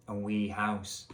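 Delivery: wee house in a Scottish accent; lightly put-on Scottish accent on "wee house". Shown as a demonstration. Reader voicing Elvis's wee house, Scottish accent. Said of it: "I think Elvis has a Scottish accent".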